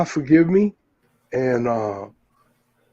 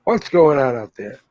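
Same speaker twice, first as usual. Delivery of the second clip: news anchor voice. Pretend. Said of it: "You sounded like a news anchor".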